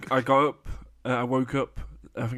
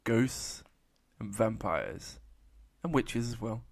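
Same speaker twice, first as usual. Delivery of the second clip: horror host; 5 dB quieter, slower than usual. Acted. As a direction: greet the ghouls like a creepy host. Spooky Halloween intro voice.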